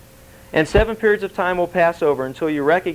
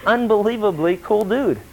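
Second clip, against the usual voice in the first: lightly voiced cocky king, higher; mock self-congratulation, pitched up; self-admiring king; 5 semitones higher than usual. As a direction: brag like a king pleased with himself. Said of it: "he looked over and going".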